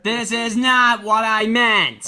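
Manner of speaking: slow, loud, laughing protest; exasperated shout. Real, not acted. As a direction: yell it out in disbelief. Frustrated outburst at the Titans.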